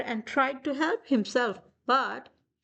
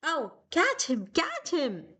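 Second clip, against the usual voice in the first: 1 mild cry; 5 semitones higher than usual. Acted. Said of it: "they cried".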